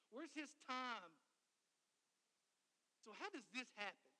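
loud, emphatic preacher's disbelief; punchy rhetorical questions, key words stretched; incredulous. Acted. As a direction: demand answers as if outraged by the unfairness. Preacher acts out disbelief at promise.

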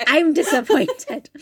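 slow, high mock disappointed through laughter; mock disappointed, laughing. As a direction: drag it out, laughing. Repeating the mock line laughing.

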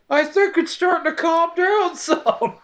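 mock calm radio voice. Mocking a calm, distant radio voice.

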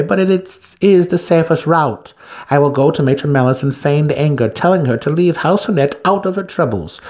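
high, loud, self-assured drow matron; a schemer relishing her plan out loud; scheming matron. Acted. Santa Fe lays out her scheme to Alton, high and loud.

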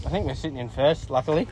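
talking through a mouthful of sandwich; words round a bite of food; mouth full. Real, not acted. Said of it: "I've got my mouth full".

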